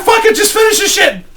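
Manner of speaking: very high-pitched, strained retold outburst; pained squeal. Customer begging piercer to finish the job, high squeal. Acted cry mid-piercing.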